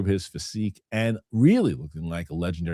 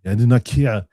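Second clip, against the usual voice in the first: mock Arnold defiance; 6 dB louder than usual. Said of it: "John Roca did not like this".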